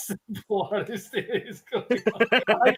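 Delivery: breaking into laughter. Acted. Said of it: "You can't do it".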